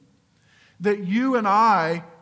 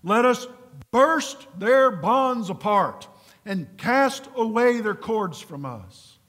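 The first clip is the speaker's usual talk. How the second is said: a hint of mankind's defiant cry; defiant rebel voice; 3 semitones higher, 3 dB louder than usual. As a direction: proclaim it slowly like proud rebels casting off chains. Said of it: "It sounds like this. It has a voice".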